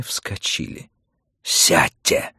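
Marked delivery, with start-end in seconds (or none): 1.4-2.3 restrained shout; shouted order. Acted. Montag orders the women to sit, shouting. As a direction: call out a curt command. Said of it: "крикнул Монтек".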